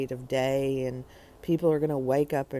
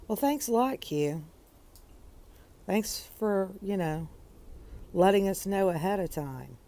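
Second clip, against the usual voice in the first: sarcastic thanks; 4 semitones higher than usual. Real, not acted. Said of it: "not really".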